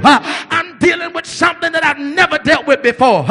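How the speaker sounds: complaining disciples. Retold or imitated. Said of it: "the people were complaining and saying".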